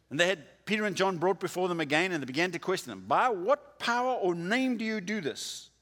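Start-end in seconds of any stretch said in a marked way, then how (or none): 3.1-5.7 stern interrogation. Retold or imitated. Council interrogating Peter and John.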